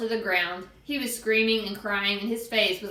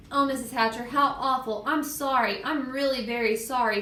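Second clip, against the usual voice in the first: slightly raised, remorseful plea; lightly acted upset girl; tearful apology; 4 semitones higher than usual. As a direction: apologise earnestly, close to crying. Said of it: "Sheila cried".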